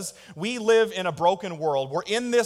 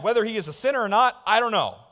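voicing the healed man; 6 semitones higher, 6 dB louder, faster than usual. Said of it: "he replied".

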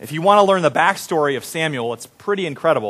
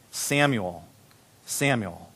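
low, hushed call of a name; soft calling; 7 semitones lower, 8 dB quieter, slower than usual. A narrator's reading. The Lord stood there calling Samuel, softly. God calls in quiet retelling.

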